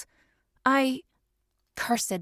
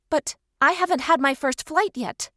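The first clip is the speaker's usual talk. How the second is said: protesting; 4 semitones higher than usual. Acted. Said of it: "I protested".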